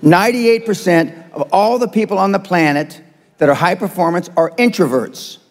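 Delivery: spelled out slowly for foreign listeners; slow repeat. Shown as a demonstration. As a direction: say it slowly, phrase by phrase. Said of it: "I'm gonna say it again slow".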